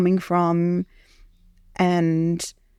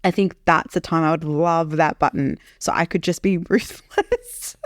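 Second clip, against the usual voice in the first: crying. Real, not acted. Laugh and cry heard.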